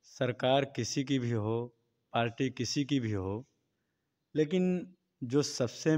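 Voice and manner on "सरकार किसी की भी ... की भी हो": slightly louder. Real, not acted. Interviewee asked to speak up, slightly louder. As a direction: repeat it with a little more volume. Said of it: "थोड़ा तेज बोलिए".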